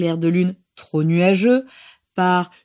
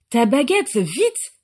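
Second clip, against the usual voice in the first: higher, urgent squeak; squeaky alarm; 4 semitones higher, slower than usual. Acted. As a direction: squeal it out in a panic. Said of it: "couina Peter".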